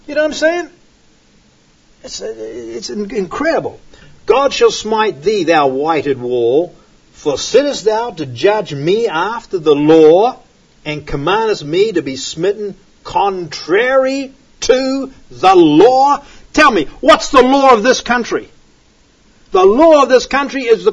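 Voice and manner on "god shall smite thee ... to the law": declaimed King James verse; scripture reading. Acted. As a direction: proclaim Paul's rebuke like a prophet. Reads Paul's rebuke from scripture.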